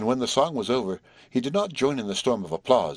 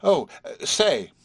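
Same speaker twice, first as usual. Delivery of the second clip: high, halting call from above; 10 semitones higher, 4 dB louder, slower than usual. A narrator's reading. Horace hailing Marcia over the banister, calling out. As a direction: call down the stairwell, pitched up. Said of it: "heard a voice call over the upper banister".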